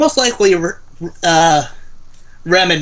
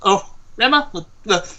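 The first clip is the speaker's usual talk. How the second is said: character voice. Acted. Player voices character to Sasha.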